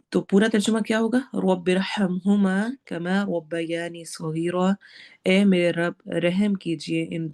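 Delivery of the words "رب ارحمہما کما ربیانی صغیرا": slow recitation. Shown as a demonstration. Teacher recites dua again.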